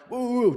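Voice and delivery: high mock woofs; playful high-pitched dog noises; imitated dog barking. Imitates his dog fending off another.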